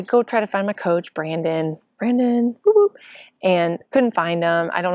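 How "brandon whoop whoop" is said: high, loud call and whoop. Retold or imitated. Looking for coach Brandon, calling out high and loud. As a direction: call across the crowd for him.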